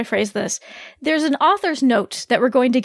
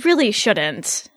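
drawn-out warning; 5 semitones higher, slower than usual. Acted. Kenzie warns her drunk friends.

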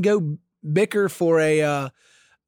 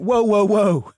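mock girls' whoa; 5 semitones higher, 7 dB louder, much slower than usual. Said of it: "and they went".

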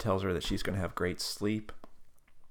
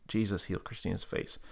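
softer echo of the prompt; repeated prayer line; 6 dB quieter than usual. Retold or imitated. Tab repeating the healing prayer, soft echo. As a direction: repeat it back quietly. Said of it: "repeat after me prayer".

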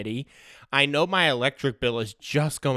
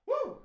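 high-pitched cheer, then a quick drop; woo; 8 dB quieter than usual. Acted. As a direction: yelp in celebration, pitched way up. Celebrating midnight hitting.

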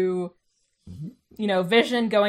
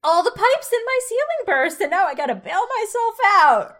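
light, bright-eyed imitation; chirpy Geraldine voice; 8 semitones higher, 5 dB louder than usual. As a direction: play her cheerfully oblivious. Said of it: "and so she's like".

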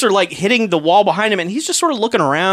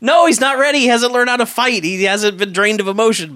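frantic protest to his boss; frantic German scientist; 7 semitones higher than usual. Retold or imitated. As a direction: panic like a mad scientist. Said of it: "the German's going crazy".

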